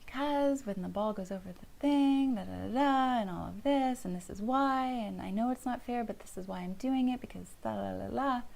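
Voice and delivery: a parent caught in the content trap, rattling off reasons; over-explaining parent. Shown as a demonstration. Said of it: "So instead of saying".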